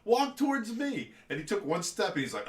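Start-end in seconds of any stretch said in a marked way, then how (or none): 0.0-1.1 high, louder calling out across the mud; retold yell. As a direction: call him back from the pond, half yelling. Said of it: "I'm like".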